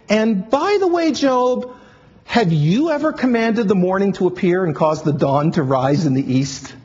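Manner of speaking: measured, commanding reading of God's words; scripture reading. Acted. Reads God's speech from scripture.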